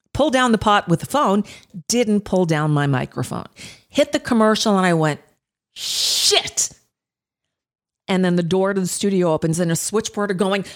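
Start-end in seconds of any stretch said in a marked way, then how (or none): 5.7-6.7 a breathy whispered "Shit" under the breath; whispered curse. Retold or imitated. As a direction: curse in a shocked whisper to no one. Caught on air, mic still on.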